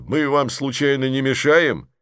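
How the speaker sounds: mild mock politeness; sarcastic. Man in a hat needles the noisy kids, sarcastic. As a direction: needle them with fake courtesy. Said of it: "язвительно заметил мужчина в шляпе".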